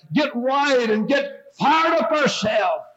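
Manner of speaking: a short revival shout to close the point; fired-up shout. Real, not acted. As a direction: call them to get fired up. Preacher's climax calling for fire.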